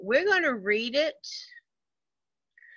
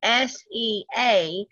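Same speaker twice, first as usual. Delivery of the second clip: spelled out slowly; slower than usual. Shown as a demonstration. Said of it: "when you hear the word sea".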